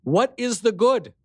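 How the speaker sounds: high call across a distance. Acted. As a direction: call back to the king. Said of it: "I called to him".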